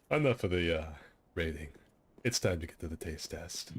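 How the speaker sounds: lightly voiced big dopey guy; Kronk voice. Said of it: "Your Kronk is, uh, is still scarily good".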